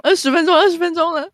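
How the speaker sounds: high, loud alarm at 二十分钟; alarmed realization. Real, not acted. Realizing they've recorded twenty minutes, high and loud alarm. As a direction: gasp it out as the time sinks in.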